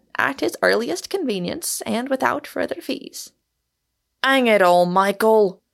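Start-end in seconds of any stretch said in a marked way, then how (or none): 4.2-5.5 loud, dead serious outcry. Narrator reads a character crying out to another, cried out, serious. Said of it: "Cried Gould, quite serious for the first time in his life".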